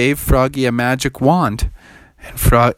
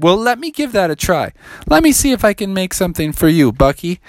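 higher, quick eager frog voice; a young frog keen to try magic; Froggy voice; 5 semitones higher, faster than usual. Acted. Froggy speaks.

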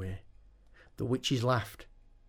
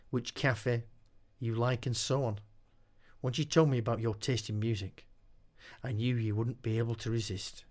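calm seductive voice. Acted. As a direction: purr it calmly and seductively. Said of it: "spoke in a calm, seductive voice".

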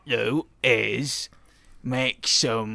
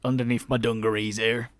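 character voice. Acted. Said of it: "I did not intend to stick to this voice".

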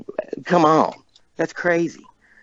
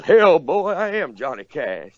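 imitation of a singer; 6 semitones higher, slower than usual. Retold or imitated. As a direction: imitate a singer's blustery comeback. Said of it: "you look just like a singer".

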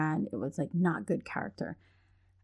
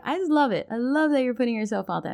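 higher, louder, gushing praise; gushing delight; 6 semitones higher, 4 dB louder than usual. Real, not acted. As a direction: rave about it with real delight. Gushing over kid entrepreneurs.

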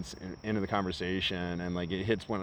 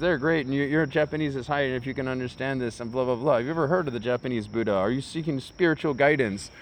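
high, louder eager sales pitch; a cult member pushing his seminars, higher; eager recruiter; 6 semitones higher, 6 dB louder than usual. Retold or imitated. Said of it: "He's like".

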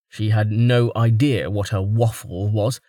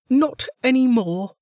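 gruff Velika; 14 semitones higher than usual. A narrator's reading. Velika telling the pushy woman to stay, grudging. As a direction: dismiss her, clipped and sour.

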